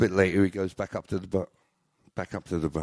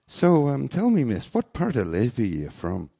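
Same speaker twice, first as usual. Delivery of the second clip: flirting man; 6 semitones higher, 6 dB louder than usual.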